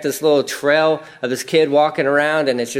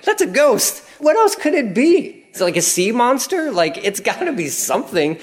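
very high, frightened rambling; panicked guess; 8 semitones higher than usual. Acted. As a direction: squeak out the fear of a ghost. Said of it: "I'm thinking".

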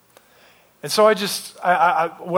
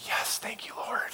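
breathy, whispered thank-you prayer; hushed relieved thanks; 4 semitones higher, 13 dB quieter than usual. Retold or imitated. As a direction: whisper it gratefully to God. Relieved thanks on seeing community title.

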